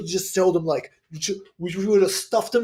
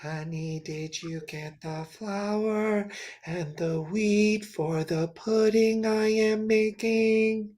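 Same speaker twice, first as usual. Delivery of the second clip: soft spouse voice; 7 dB quieter than usual. Acted.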